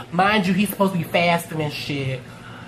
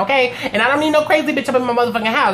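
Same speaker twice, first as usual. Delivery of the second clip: sassy rant; 4 semitones higher, faster than usual. Retold or imitated. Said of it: "Rhonda like".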